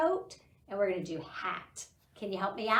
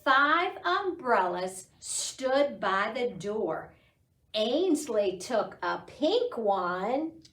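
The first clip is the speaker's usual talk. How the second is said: slow, sing-song poem reading; teacher reciting a counting poem to toddlers, slow sing-song; poem recitation; 4 dB louder, slower than usual. Acted. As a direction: recite the rhyme slowly for children. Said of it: "So the poem goes".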